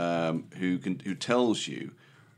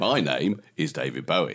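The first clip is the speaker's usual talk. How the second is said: lower, lightly Cockney film-star impression; a hint of Caine's Cockney, pitched down; Michael Caine; 5 semitones lower than usual. Shown as a demonstration. Host mimicking Michael Caine saying he is a famous singer, low Cockney. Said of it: "Michael Caine saying that his name".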